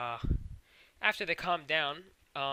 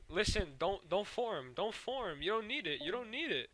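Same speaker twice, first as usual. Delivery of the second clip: higher-pitched coaxing voice; mock pleading; 6 semitones higher than usual. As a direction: imitate earnestly talking someone out of it. Steven pleads with the cluster.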